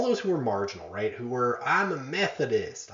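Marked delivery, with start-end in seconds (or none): 1.6-2.9 higher-pitched mock Methodist accent; put-on accent. Lecturer voicing a marginal believer claiming an identity, put-on accent. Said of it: "why I made that accent".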